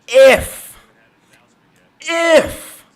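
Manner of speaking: IF punched high and alone; stress on IF. Real, not acted. Fan doubting the Lions will win, stress on IF. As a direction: repeat IF high, set apart by pauses.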